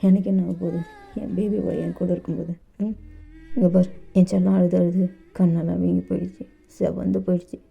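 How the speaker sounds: tender, teasing lover. Acted. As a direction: tease him out of his tears. Dev teases and soothes JK.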